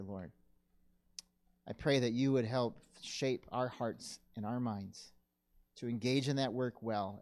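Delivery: steady, earnest prayer voice with pauses; closing prayer. Acted.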